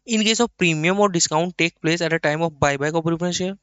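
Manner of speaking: slow, measured reading of the text; slow dictation reading. Acted. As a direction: read it out slowly so the class can copy it. (धीमी आवाज़ में लिखवाना)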